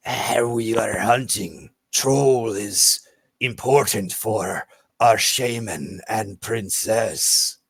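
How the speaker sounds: very slow, deliberate reptilian speaker; solemn lizard folk. Acted. Lizard folk explains the hunt to Vesh, slow and solemn. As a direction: draw each word out with grave ceremony.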